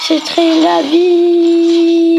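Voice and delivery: slow, stretched "C'est très la vie"; slow philosophical catchphrase. Acted. Player shrugging at his losses, slow mock wisdom.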